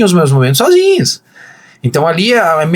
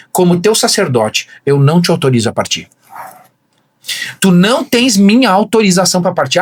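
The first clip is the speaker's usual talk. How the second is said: commanding prayer. Retold or imitated. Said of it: "botava as mãos na porta e dizia assim".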